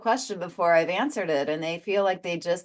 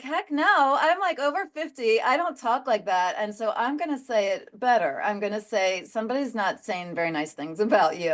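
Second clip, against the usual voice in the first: higher, mock-indignant protest; indignant refusal; 4 semitones higher than usual. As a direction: push back, half-amused and offended. Indignant retort to the spirit.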